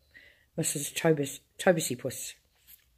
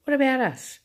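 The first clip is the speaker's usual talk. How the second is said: screaming; 8 semitones higher, 4 dB louder than usual. A narrator's reading. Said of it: "screamed Grandma Georgina from the bed".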